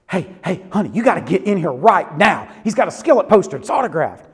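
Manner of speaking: imitating an urgent, excited phone call; mock excited urgency. Woman phoning her boyfriend about the poster, mock excited urgency. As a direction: punch it out like an eager fan.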